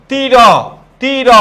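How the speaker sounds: "তীর" stretched as tii-rooo; drawn-out syllables. Shown as a demonstration. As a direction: hold both vowels of "তীর" to show the o after r. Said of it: "এই রয়ের সাথে একটা কি আছে?".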